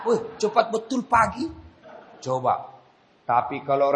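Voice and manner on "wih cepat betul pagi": laughing. Real, not acted. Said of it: "joking aside".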